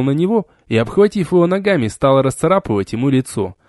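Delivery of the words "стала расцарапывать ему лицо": plain reading voice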